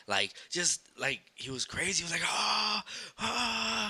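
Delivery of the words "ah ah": high-pitched imitation of yelling; drawn-out mock "aah" of a man yelling; mock crazed yell. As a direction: act out a crazy scream without full volume. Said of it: "starts yelling at the top of his lungs".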